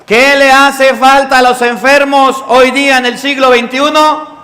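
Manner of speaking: pregunta alzada con fuerza al público; énfasis fuerte. Real, not acted. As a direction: exige la respuesta en voz alta. Sacerdote interpela con fuerza. (pregunta en voz alta y enfática)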